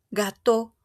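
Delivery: "Gato" ending on one pure O; French gâteau, ending in a single O; final O sound. Shown as a demonstration. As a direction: say "Gato" as ga-TO, one closed o at the end. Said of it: "¿A qué suena? A una O".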